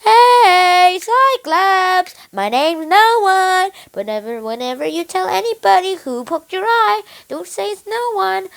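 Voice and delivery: loud, high boastful shout; proud calling out. Acted. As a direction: holler it proudly across the water. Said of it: "so proud that he called his name".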